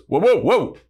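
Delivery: comic loud slip cry; stumbling whoa. Retold or imitated. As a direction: yelp it like losing your footing. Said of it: "he slips and he goes".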